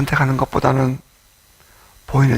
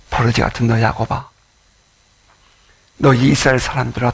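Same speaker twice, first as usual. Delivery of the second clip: solemn scripture reading. Acted. Reads God's words.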